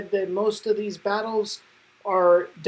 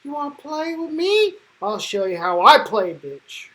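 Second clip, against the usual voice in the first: taunting threat; 3 semitones higher than usual. Retold or imitated. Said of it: "she's like".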